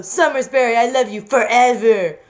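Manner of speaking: lightly hammed-up declaration of love; understated melodramatic cry; mock cry. Reader as El Wolfo pledging love, mild mock cry. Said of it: "cried El Wolfo".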